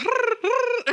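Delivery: high trilled mimicked noise; imitated cat-calling noise. Host mimics a boy trying to get the cats, high trilling noise. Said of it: "he starts making a noise".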